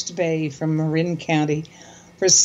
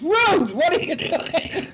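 put-on a rough German accent, high, slow and exasperated; German accent imitation; 8 semitones higher, slower than usual. Husband imitating wife's father scolding her mother, German accent. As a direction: do the father's German accent, calling his wife. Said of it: "I can't do his accent right".

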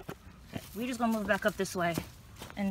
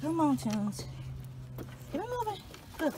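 much higher, sing-song urging; high-pitched urging; 7 semitones higher, 4 dB quieter than usual. Real, not acted. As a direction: urge the dog on, way up high. Urging dog across bridge.

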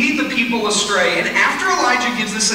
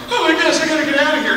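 higher, louder mock panic; panicked; 7 semitones higher, 3 dB louder, much faster than usual. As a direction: play him scared and ready to bolt. Elijah panics and flees.

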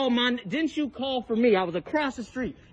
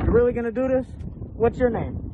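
angry demand. Real, not acted. Angry confrontation with neighbor.

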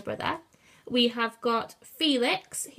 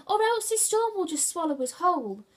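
squealing; 8 semitones higher, 4 dB louder than usual. A narrator's reading. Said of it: "Cornelius squealed".

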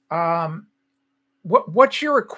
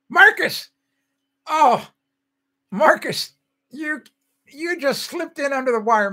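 higher, louder happy call of a name; light up as a friend arrives; excited greeting; 8 semitones higher, 5 dB louder, slower than usual. Real, not acted. Greeting late viewer Marcus.

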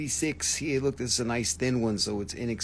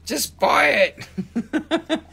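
laughing plea; 6 dB louder, much slower than usual. Real, not acted. Urging the buyer, laughing.

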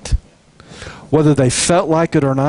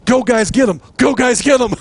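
higher, peppy mock cheering; mock cheerleader; 7 semitones higher than usual. Worshiper cheering the soldiers from the back, playful mock cheer. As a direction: cheer from the back line, tongue in cheek. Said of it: "I am your cheerleader".

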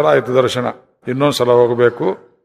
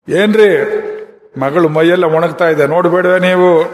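raised-pitch wifely complaint; reproachful wife; 3 semitones higher than usual. Acted. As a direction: call the husband to account over the daughter. Wife scolds husband in story. (ಗಂಡನನ್ನು ಆಕ್ಷೇಪಿಸುವ ಹೆಂಡತಿ)

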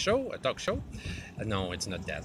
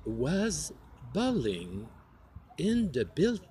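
put-on British accent; much slower than usual. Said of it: "Okay, British".

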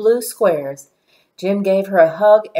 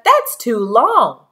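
shouting; 4 semitones higher, 5 dB louder, slower than usual. A narrator's reading. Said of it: "shouted Tanya".

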